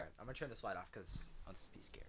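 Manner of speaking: fast, hushed whisper; whispering before turning the light off. Real, not acted. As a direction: whisper to set up a spooky story. Sets a scary mood.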